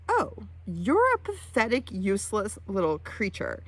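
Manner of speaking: voiced scorn of an unimpressed animal; disdainful moose. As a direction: look down on a puny human. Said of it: "she looks at me like".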